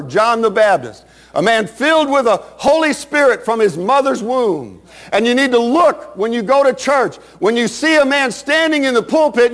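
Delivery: driving, emphatic sermon delivery; impassioned preaching. Real, not acted. Preacher urging the congregation not to be ashamed, fervent preaching. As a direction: preach it in long, rolling phrases.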